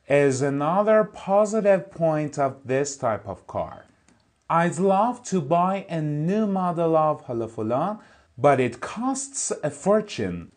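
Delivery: slow, careful reading of an English text; slow textbook reading. Shown as a demonstration. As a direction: read each word out clearly for the class. Teacher reads English text aloud. (خواندن آهسته و شمردهٔ متن انگلیسی)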